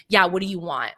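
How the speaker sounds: retold curt, rude question; mildly rude brush-off. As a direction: imitate a dismissive bartender. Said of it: "Like, so rudely".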